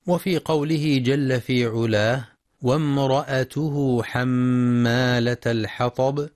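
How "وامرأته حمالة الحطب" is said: slow, measured recitation with long vowels; careful tajweed reading; Quran recitation. Shown as a demonstration. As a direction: recite the verse slowly, drawing out the elongations. Teacher recites the verse under discussion.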